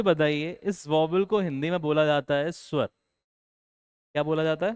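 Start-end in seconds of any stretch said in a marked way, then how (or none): 2.9-4.7 slow quiz question. Shown as a demonstration. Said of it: "teacher quizzing the class".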